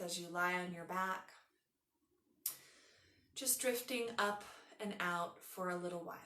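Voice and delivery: unhurried yoga nidra guidance with long pauses; guided meditation. Acted. Leads a guided relaxation.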